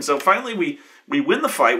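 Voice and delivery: normal talking voice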